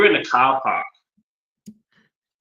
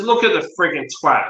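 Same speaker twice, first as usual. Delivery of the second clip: raised, scornful call; angry jab; 5 semitones higher than usual. Retold or imitated. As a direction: point him out in contempt. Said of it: "I said".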